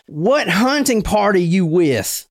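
a slow Southern hick challenge; hick Southern accent. Acted. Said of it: "hick Southern accent".

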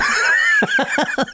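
a burst of high, shrieking laughter; can't hold it in, squeal with laughter; high laughing shriek. Real, not acted. Cracking up at the misread name.

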